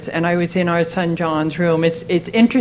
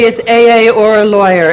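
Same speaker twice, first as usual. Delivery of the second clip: louder, firm ultimatum to her husband; wife confronts her drinking husband with an ultimatum; 2 semitones higher, 6 dB louder than usual. Retold or imitated. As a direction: lay down the law, no way out.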